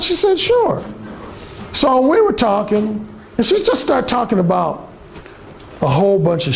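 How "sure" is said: mock woman, much higher; bright girly "sure"; imitating her quick yes; high woman's voice.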